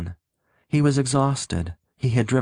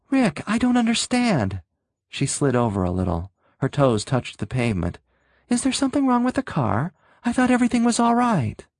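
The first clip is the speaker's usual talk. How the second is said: bewildered pleading woman; 8 semitones higher than usual. A narrator's reading.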